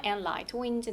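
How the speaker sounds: "And light winds" slowly, dropping on "winds"; falling intonation. Shown as a demonstration. Teacher models the last list item, falling on "winds". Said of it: "내려갑니다".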